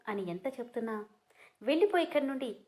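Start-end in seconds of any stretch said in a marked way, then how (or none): 1.6-2.6 high, loud tearful yell; shouting and crying. Acted. Heartbroken wife screams at husband to leave, crying. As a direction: throw him out through tears. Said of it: "అని గట్టిగా అరుస్తూ, ఏడుస్తూ".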